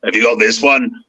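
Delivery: lightly voiced gruff-hero aside; Zeb impression. Zeb asking the kid, a light impression. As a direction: slip lightly into a character's voice. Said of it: "that wasn't a bad Zeb".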